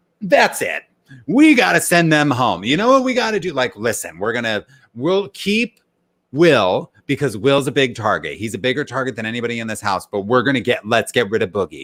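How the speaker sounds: mad, heated, worked-up angry rant. Recapping a man's reaction to new information, retelling a heated rant. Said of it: "he's like heated coming back".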